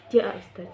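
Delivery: "Jaa Ustaz" bernada rendah tanpa emosi; nada rendah. Shown as a demonstration. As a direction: ucapkan "Jaa Ustaz" biasa saja, nada turun. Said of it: "Biasa aja gitu". ("Jaa Ustaz" datar tanpa emosi)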